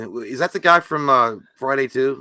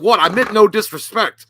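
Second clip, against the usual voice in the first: Thor voice; 7 semitones higher, 4 dB louder than usual. Retold or imitated. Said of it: "like it's Thor".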